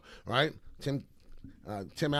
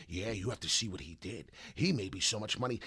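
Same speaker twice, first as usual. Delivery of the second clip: mock scammer comment; 3 semitones lower, 4 dB quieter than usual. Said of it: "the other seven people comment".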